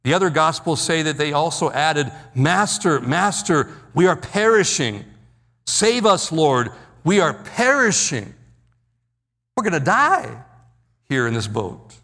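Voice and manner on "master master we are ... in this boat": panicked shouting. Retold or imitated. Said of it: "downright panic and shouting over the storm".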